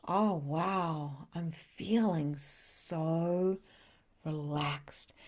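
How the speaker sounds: very slow, soft, melting voice; deeply relaxed. Retold or imitated. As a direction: sink into calm as you say it. Acting deeply relaxed state.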